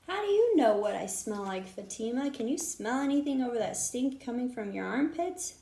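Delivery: loud indignant retort; taunting comeback. Acted. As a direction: fire back a playground insult. Children quarreling on road.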